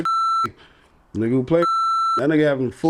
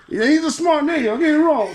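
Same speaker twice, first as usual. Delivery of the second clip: laughing; 10 semitones higher than usual. Real, not acted. Shouting while laughing.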